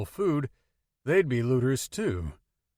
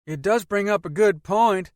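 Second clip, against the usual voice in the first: put-on country boy accent; 9 semitones higher, 7 dB louder than usual. A narrator's reading. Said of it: "in his country boy accent".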